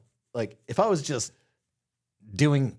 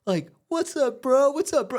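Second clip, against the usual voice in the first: much higher, loud hyped bro voice; pumped-up bro greeting; 14 semitones higher, 4 dB louder, slower than usual. Retold or imitated. Mimicking a tipsy dad greeting him at parties, high hyped bro voice. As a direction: play the overeager buddy dad. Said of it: "he's like".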